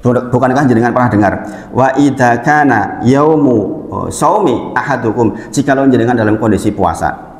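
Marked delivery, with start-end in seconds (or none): 1.7-5.3 slow recited Arabic; hadith recitation. Acted. Preacher quoting hadith on fasting, slow recitation. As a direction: recite it slowly and carefully.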